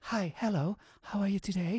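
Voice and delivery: soft, near-whispered hello; hushed greeting. Acted. Guest mimics greeting someone in a quiet reading room, hushed. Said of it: "you make it whispering".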